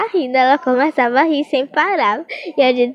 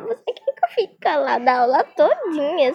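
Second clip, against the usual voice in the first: sweet-talking pupil; 5 semitones higher than usual. Retold or imitated. Kids sweet-talking the teacher.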